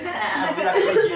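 high squeaky laughing voice; helium voice. Real, not acted. Helium game.

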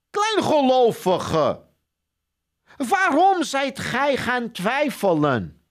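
a firm, drawn-out reproach from above; rebuke. Acted. Jesus slowly and loudly rebuking doubting Peter. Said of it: "en zeide tot hem".

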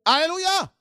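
high ringing alleluia shout. Real, not acted. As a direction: lift the crowd with a big alleluia. Preacher's shouted acclamation. (alléluia crié à pleine voix)

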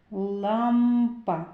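"Лампа" with a long, hummed "м" in the middle; М stretched. Shown as a demonstration. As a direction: hold the M in "Лампа" before releasing "па". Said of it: "Зробимо звуковий аналіз слова".

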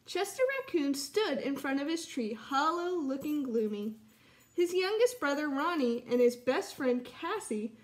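put-on lively read-aloud for children; story narration. Teacher reads story aloud.

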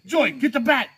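imitating a boss summoning backup; imitated urgent order. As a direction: call out the order as a mock shout. Boss calling for the bat.

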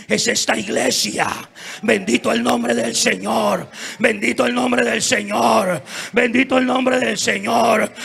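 loud preacher's exaltation; rousing praise. Real, not acted. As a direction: build to a loud, repeated blessing. Preacher exalts church and God. (alabanza con voz fuerte)

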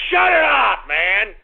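yelling to shut it up; fed-up outburst; angry shout. Real, not acted. Angry at pony clip.

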